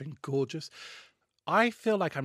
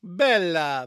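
exclaiming; 2 semitones higher, 9 dB louder than usual. Acted. Mock Greek toast exclamation.

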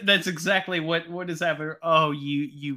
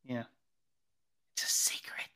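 whisper; 5 semitones lower, 10 dB quieter than usual. Acted. Joking about a secret show.

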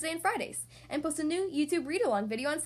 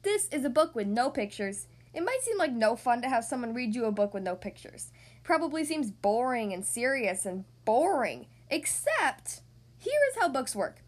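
lively storytime reading; animated read-aloud voice; reading to children. Acted. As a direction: read it to a little kid.

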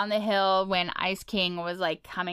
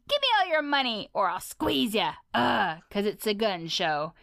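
a lightly voiced, boastful icy king; tough Ice King. Ice King bragging about his arms, a light swagger. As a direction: show off his muscles, swaggering.

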